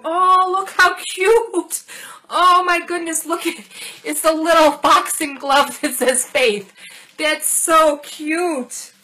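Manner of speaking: real delight at a little gift; thrilled squeal. Real, not acted. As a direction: coo over it slowly, delighted. Delighted by a boxing glove charm.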